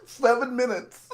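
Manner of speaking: high, slow words through a laugh. Real, not acted. Teasing a suffering friend about the runtime, while laughing. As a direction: giggle it out, teasing.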